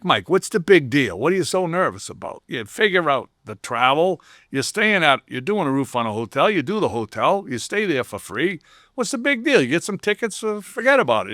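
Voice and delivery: a hint of a rough, tough Boston dad brushing it off; lightly voiced dad, dismissive and breezy, pitch jumping up on the big deal; mock-exasperated father waving off his son's nerves; gruff dad impression. Tough union dad voiced in story.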